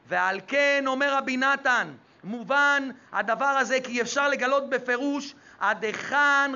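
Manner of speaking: intoned sermon with held word endings; sing-song preaching. Real, not acted. Rabbi teaching about the prayer of the poor, sing-song preaching. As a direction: preach on one sustained, chanted pitch.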